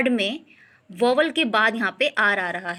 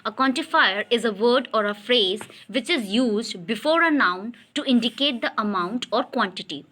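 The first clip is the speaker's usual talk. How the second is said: slow dictation reading; much slower than usual. Acted. Teacher reads definition slowly.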